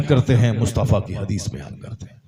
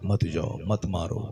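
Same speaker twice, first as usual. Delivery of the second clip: gentle restraint; 3 semitones lower than usual. Acted. Saint gently restrains angry disciple.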